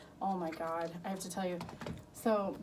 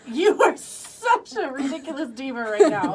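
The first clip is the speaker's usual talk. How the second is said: louder, higher, half-laughing; laughing loud quote; 5 semitones higher, 12 dB louder than usual. Retold or imitated. Mother teasing her daughter, loud and laughing. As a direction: tease her through laughter. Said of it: "I'm like".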